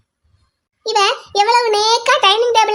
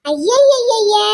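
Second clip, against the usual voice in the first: mock dismissal, slowly dragged; very slow scoffing exclamation; long drawn-out scoff; much slower than usual. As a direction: stretch the syllables out, very slow. Mother mocks the daughter's plea.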